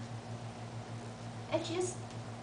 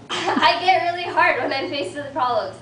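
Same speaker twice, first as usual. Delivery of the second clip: laughing admission; 3 semitones higher, 6 dB louder than usual. Real, not acted. Laughing admission about herself.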